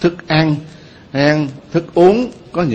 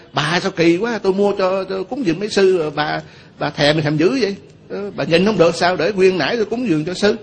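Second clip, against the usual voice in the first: higher-pitched mock scolding; scolding daughter; 5 semitones higher than usual. Devotee scolding her mother over the offered bananas, higher-pitched complaint. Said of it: "mới la lên nói".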